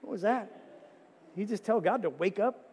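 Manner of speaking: a scandalized pew neighbor; mild mock alarm; shocked churchgoer.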